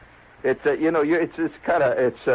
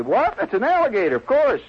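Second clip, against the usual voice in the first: higher-pitched astonished retort; taken aback; 10 semitones higher than usual. Acted. Club member setting a clueless guest straight, astonished. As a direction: answer as if the question were absurd.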